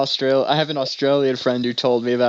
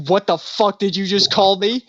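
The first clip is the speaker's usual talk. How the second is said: higher-pitched, imitated outrage; mock confrontation; 7 semitones higher than usual. Big gambler to Australian friend, mock indignant. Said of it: "immediately whipped around and got in his face".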